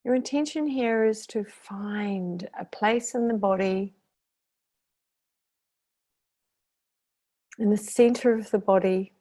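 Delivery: unhurried meditation guide with long pauses; guided meditation. Acted. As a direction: lead them gently through the breathing, drawing out key words.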